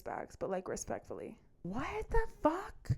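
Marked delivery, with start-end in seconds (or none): 1.6-2.9 a much higher, slow disbelieving "what the fuck"; shocked. Real, not acted. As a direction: let the words stretch out in stunned disbelief. Shocked by his dating profile.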